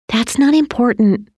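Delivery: mild motherly reassurance; gentle. A narrator's reading. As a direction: gently brush the question aside. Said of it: "she said gently".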